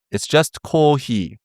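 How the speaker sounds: coffee said the Japanese way, slow; "coffee" as a Japanese speaker would say it; a playful Japanese-accented "coffee". Shown as a demonstration. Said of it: "that's how you say coffee in Japanese".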